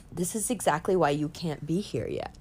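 Johnny Depp calmly telling dreamer she must wait, soft; calm reply. Retold or imitated. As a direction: say it gently, settled and sure.

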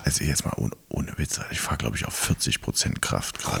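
hushed confession, barely voiced; whispering. Real, not acted. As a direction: whisper it so nobody hears. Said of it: "deswegen sag ich extra leise".

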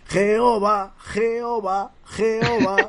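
put-on high, loud old man cry. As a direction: shout it like an old man, laughing. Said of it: "la voz del viejo es cojonuda".

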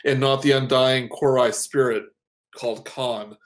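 even, measured storyteller read; narrating a hero's backstory; story narration. Acted. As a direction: set the scene like a book's opening.

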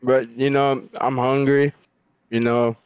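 talking through a mouthful; chewing while talking. Real, not acted. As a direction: mouth full. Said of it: "You literally sound like you're eating right now".

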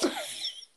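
high wheezing laugh; wheezy voice. Real, not acted. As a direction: laugh until you wheeze. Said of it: "You sound like you're wheezing".

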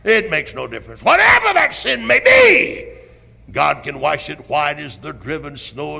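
full-force revival preaching, rising and booming on key words; fiery preaching. Acted. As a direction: thunder it from the pulpit. Preaching resumes.

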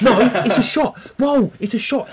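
high, loud laughing protest; laughing outcry. Real, not acted. Friend caught faking his drink, laughing protest. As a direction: cry out through laughter at the cheat.

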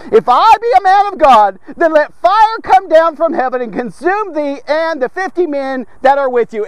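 Elijah calling fire down on the captain; Elijah's bold answer. Acted. Prophet Elijah answers the king's captain, commanding.

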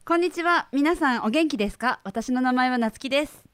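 neat standard Tokyo Japanese self-introduction. Shown as a demonstration. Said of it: "I'll try standard Japanese".

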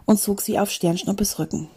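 animated storybook reading; story narration. A narrator's reading. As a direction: read an adventure to a class, clearly articulated. Reads a story aloud.

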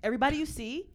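patient but loud emphasis. Retold or imitated. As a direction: spell it out firmly. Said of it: "I used to have to break it down".

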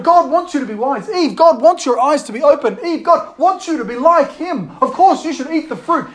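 mock-reasonable urging; lightly acted tempter. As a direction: talk Eve into it. Serpent persuading Eve, acted.

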